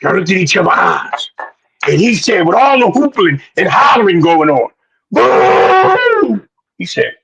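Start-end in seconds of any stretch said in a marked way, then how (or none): 5.1-6.5 high yelled boo; retold shout. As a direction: bark it like the fighter did.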